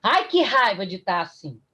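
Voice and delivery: mock anguished outburst, loud at the start; acted-out fretful complaint; anguished patient. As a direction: imitate a distressed patient venting fear and frustration. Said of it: "minha paciente virou pra mim e falou assim".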